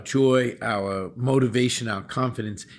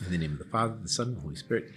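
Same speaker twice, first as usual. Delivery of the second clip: prayer. Acted. Bishop gives the blessing.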